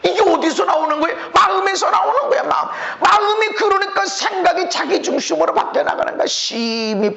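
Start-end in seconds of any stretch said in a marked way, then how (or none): 1.3-2.7 preaching shout. Real, not acted. Emphatic preaching.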